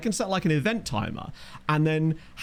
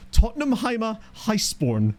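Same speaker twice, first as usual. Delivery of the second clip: put-on terrible German accent; 6 semitones higher, slower than usual. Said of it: "I get to do a terrible German accent".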